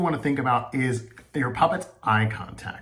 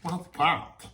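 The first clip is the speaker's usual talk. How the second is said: higher, puzzled question; lightly voiced curious puppet; 6 semitones higher than usual. Shown as a demonstration. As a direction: peer down at something curious. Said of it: "looking down at something on the floor".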